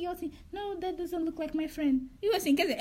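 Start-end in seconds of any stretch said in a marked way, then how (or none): 0.5-2.1 slow, drawn-out retold denial; a hint of a dazed girl; lightly voiced tipsy girl. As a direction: lightly imitate her dragging out the words.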